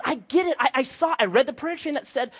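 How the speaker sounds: a hint of a busybody grandma in on the secret; knowing grandma. Grandma telling the pastor she knows, lightly mock-knowing.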